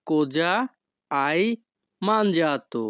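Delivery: each word of "Cosa hai mangiato?" set apart by pauses; slow separated words for a class. Shown as a demonstration. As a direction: break the question into single words. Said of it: "এই বাক্যের Italian ভাষা হবে".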